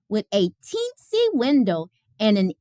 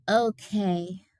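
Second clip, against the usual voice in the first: mumbled; 3 semitones lower, 5 dB quieter than usual. Acted. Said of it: "mumbled Ruthie".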